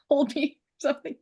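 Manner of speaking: fast breathy whisper with a laugh; whispered aside. Real, not acted. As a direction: toss it off in a whisper.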